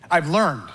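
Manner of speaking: learned said low and weighty; stress on learned. Shown as a demonstration. Preacher stressing the key word learned. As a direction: lean on learned, low and slow. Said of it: "the key word here is learned".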